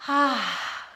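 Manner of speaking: high, falling "ah" sigh; open-mouthed sigh of release; relieved sigh. Real, not acted. Audible exhale reaching the floor.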